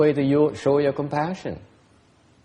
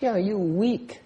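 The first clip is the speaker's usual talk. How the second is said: higher teasing taunt; teasing jab; 6 semitones higher, much slower than usual. Real, not acted. Teacher teasing the student about misplaced compassion. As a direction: needle the listener playfully. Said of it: "That's what he means".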